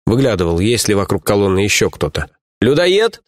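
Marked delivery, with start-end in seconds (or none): 2.6-3.2 заинтересованно, с подъёмом; любопытный вопрос; с любопытством. A narrator's reading. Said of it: "с любопытством спросил". (с любопытством)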